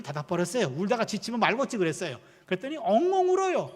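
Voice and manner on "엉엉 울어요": high, loud imitation of a child's wail; mock bawling. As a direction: draw out the crying word like a bawling toddler. Mimics the toddler's bawling. (크고 높게 엉엉 우는 흉내)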